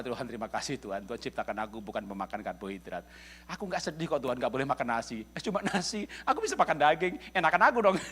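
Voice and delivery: grateful prayer. Retold or imitated. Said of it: "Jadi saya berdoa".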